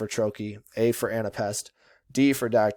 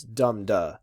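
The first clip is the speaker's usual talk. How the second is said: "dum-duh" with the first syllable stressed; trochaic stress. Shown as a demonstration. Teacher shows students the trochee, first syllable stressed. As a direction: hit "dum" in "dum-duh" and let "duh" fall. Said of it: "the first syllable is stressed more".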